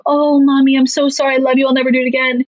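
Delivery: a hint of a kid saying sorry to mommy; apologetic child. Parent voices a remorseful child.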